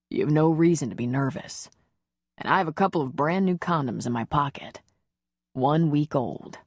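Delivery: a hint of a male lover, slowing at the end; lightly voiced reassuring man. Man reassuring his nervous lover, lightly voiced. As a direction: lightly play a man calming her nerves.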